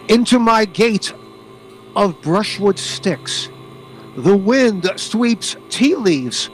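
slow, measured haiku reading; poem recital. Acted. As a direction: read it slowly like a poem.

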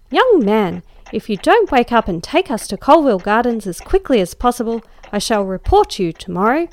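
loud, scolding threat to a sleepy cabby; impressive harangue. Acted. Lady scolding the dozing cabby in the fog, loud and imperious. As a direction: lay down the law at full volume. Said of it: "this impressive harangue".

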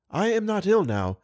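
weak diva suddenly insists to the doctor, energetic; sudden energy. Acted. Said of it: "with strange and unexpected energy".

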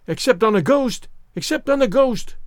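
high-pitched gleeful twins; mock shriek. A narrator's reading. Twins capering about, shrieking in high voices. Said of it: "shrieked the twins".

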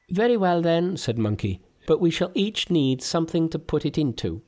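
Monkey as deity addresses the kneeling Taoists, very high. Acted. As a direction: speak down to them like a god.

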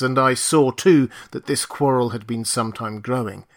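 usual speaking voice

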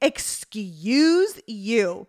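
drawn-out, appalled scolding; indignant, imitating her own outrage; disgusted. Older sister to her little brother after a fart, disgusted. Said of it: "I just looked disgusted".

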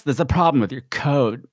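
a touch of eighties bitch tone; mock eighties bitch tone. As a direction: lightly play the breathy scream-queen secretary. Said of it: "she talks like this".

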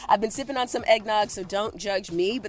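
recorded inside a closet; muffled, boxed-in sound. Real, not acted. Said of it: "why I sound a little different this week".

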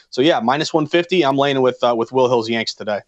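choppy audio dropping out; words breaking up over a bad connection; buffering stutter. Real, not acted. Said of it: "you cut out for a second".

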